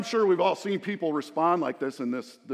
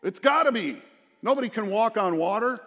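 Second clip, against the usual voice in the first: mock frightened cry; 6 semitones higher, 4 dB louder than usual. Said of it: "They say".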